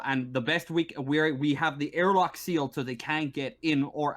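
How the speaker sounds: lightly voiced marshal, exasperated and defensive; mildly heated officer justifying himself; frustrated station marshal. Marshal defending the airlock lockdown, frustrated.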